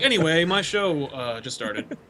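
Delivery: slow, offhand show opener, sinking at the end; Rob hosting his show. Retold or imitated. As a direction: imitate a host who owns the show. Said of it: "like it was your show".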